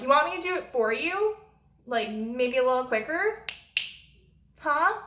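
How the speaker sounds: high, pointed mock-helpful questions; retold impatient, high-pitched nudge; needling offer. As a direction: pitch it up, prodding a dawdler. Retold needling offer to dawdling guest.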